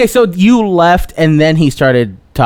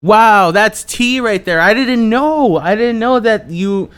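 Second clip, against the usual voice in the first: raised pitch, drawn-out astonishment; amazed; 4 semitones higher than usual. Real, not acted. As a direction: react wowed by juicy gossip. Astonished by fresh gossip.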